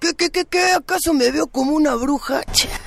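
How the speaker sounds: high, put-out street sweeper; indignant sweeper. Acted. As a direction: squawk it in offended disbelief. Sweeper offended at being called witch.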